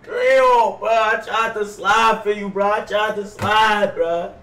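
mock crying. Grieving his dead friend to chat, mock sobbing. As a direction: pretend to weep, dragging the words out. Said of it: "he crying 'cause I died".

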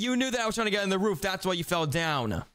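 breathless after climbing; panting between words; out of breath. Real, not acted. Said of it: "I'm out of breath".

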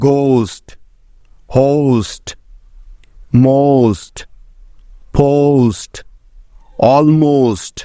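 each word said slowly and clearly, ending on a falling tune; word list demo. Shown as a demonstration. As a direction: model every o sound clearly, word by word. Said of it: "যেমন". (ধীরে স্পষ্ট উচ্চারণে শব্দ তালিকা)

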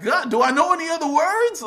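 high, loud, mock despair at yourself; exasperated. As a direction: groan at your own cursing. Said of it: "I'm watching it back like".

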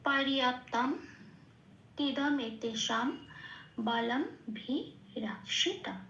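slow, measured verse with pauses; slow recitation. Shown as a demonstration. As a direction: recite the next line word by word. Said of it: "তারপরের লাইনটা". (ধীরে থেমে থেমে আবৃত্তি)

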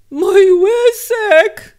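high, loud, slowly drawn-out cry; touched, long-held high call; moved, emotional exclamation. A narrator's reading. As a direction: stretch it out, overcome with feeling. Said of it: "szepnął wzruszony Kubok".

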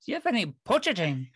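lightly imitated Irish accent, quick on the question; a hint of an Irish interviewer, rattling it off fast; strong Irish accent. Job candidate mimics the Irish interviewer's accent, lightly done Irish accent. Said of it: "this strong Irish accent came out".

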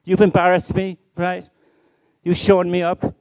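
mock-scold the child for showing you up; scolding parent. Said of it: "But you blame the child".

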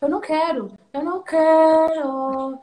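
stretched, whiny no, half-mocking; mock whining, dragging out the last quero; whiny refusal. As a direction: dig in your heels like a sulky child. Retold refusal to the husband.

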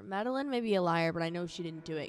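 loud insistent defence; exclaiming. Acted. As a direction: stand up for her friend. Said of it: "exclaimed Isabella".

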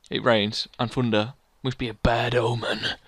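slow, low ominous aside; ominous narrator. Acted. YouTuber grumbling about the weather, ominous narrator. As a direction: draw it out like a bad omen.

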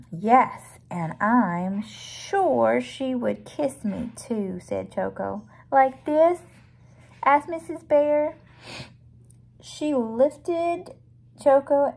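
deliberate, drawn-out picture-book reading; read-aloud storybook. A narrator's reading. Reading of Mrs Bear hugging and kissing Choco, storybook narration. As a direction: read it out to a little listener.

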